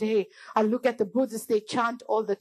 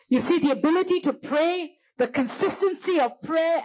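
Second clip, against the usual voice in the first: raised-pitch, urgent sermon delivery; impassioned preaching; 4 semitones higher than usual. Real, not acted. Preacher urging church to pray, impassioned preaching. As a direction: press the point home in a high preaching voice.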